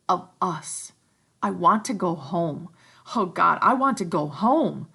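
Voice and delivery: put-on frightened boys. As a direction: plead to go home. Ralph and Piggy pleading.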